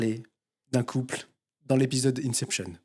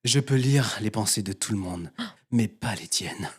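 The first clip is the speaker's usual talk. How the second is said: slow motion; 4 semitones lower than usual. Retold or imitated. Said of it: "je vais mettre un temps d'arrêt entre chaque mot".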